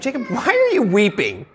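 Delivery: pointed rhetorical why; mild challenge, not wanting an answer; implied reproach. Shown as a demonstration. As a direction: question it as if he should not be weeping. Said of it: "I'm implying that Jacob should not be weeping".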